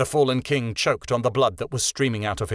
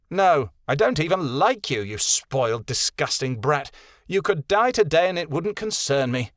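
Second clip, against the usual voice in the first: mild sneer, higher, looking down on her; a light contemptuous sneer at the spoiled girl; 4 semitones higher than usual. Acted. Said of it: "Winter sneered".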